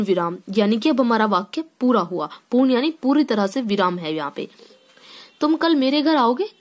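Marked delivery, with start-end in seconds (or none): 5.4-6.5 the sentence "तुम कल मेरे घर आओगे" lifted high in amazement; surprised. Shown as a demonstration. Teacher demonstrating a sentence of surprise to children, amazed tone. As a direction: sound astonished that they are coming. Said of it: "आश्चर्य सा हो रहा है".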